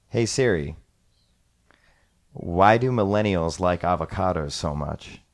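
clear, deliberate command to the phone; voice assistant command. Shown as a demonstration. Host asking Siri on air, clear command voice. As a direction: spell it out for Siri. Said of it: "I'm gonna say something like".

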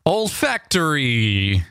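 "olfactory" drawn out in a hammed-up Italian accent; slow jokey Italian-accented "olfactory"; mock Italian accent. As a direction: tease with a cartoon Italian "it's a me". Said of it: "with an Italian accent".

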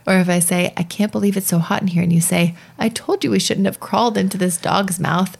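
book passage read to co-host; animated read-aloud with voiced quotes. Podcast host reading the improv rules from a book to her co-host.

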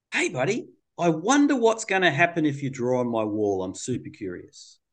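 a lightly playful curious tease. Retold or imitated. Therapist teases the boy about drawing on the wall, lightly playful. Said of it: "I say playfully".

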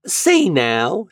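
high, rising "Say now"; landlady's drawl. A narrator's reading. Landlady prodding the lodger about his feelings. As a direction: draw him in with "Say now". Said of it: "she went on".

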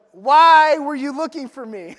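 put-on boy Jesus quoted through laughter; laughing quote. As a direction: read it while cracking up. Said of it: "he said to them".

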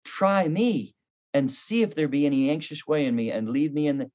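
slow reverent prayer; hushed scripture recitation. Acted. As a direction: read the psalm as a prayer. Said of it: "This is".

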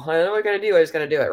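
knowing self-talk. Retold or imitated. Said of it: "We've all said that before".

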